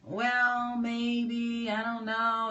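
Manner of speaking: mock someone who can't commit to a no; a touch of indecisive waffling; wishy-washy hedging. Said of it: "or be like".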